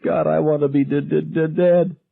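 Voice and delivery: high stuttering sob; hysterical weeping. A narrator's reading. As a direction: choke out the words through sobs. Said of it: "Irma was weeping hysterically".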